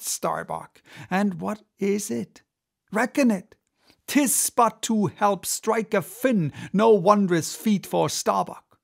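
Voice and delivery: intense, brooding sea captain; obsessed captain. Acted. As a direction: rant with growing obsession. Ahab's tirade continues.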